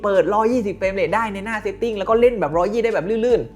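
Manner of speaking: high-pitched imitation of an astonished reviewer; amazed reviewer. Foreign reviewer marvels at the game's frame rate, mock amazement. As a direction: play back his surprise, pitched well up. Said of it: "เขาเซอร์ไพรส์มาก เขาบอก".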